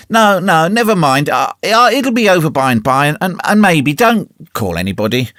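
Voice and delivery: put-on groaning boy, faking illness; faking pain. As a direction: ham up the pain.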